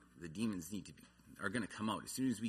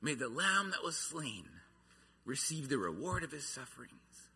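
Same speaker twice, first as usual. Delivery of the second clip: a raised, ringing call from the ship; crying out; 3 semitones higher than usual. Retold or imitated. Missionaries calling back to their families on the shore, raised ringing cry. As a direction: lift the voice and call it across the water. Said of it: "they cried out to their families on the shore".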